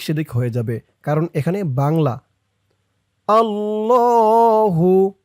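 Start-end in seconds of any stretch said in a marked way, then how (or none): 3.3-5.1 আল্লাহু with a full Arabic double l and rounded o, drawn out slowly; correct Arabic pronunciation. Shown as a demonstration. Teacher shows students the Arabic আল্লাহু. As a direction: say আল্লাহু the Arabic way, not as Bengali spelling. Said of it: "আমাদের বলতে হবে আল্লাহু".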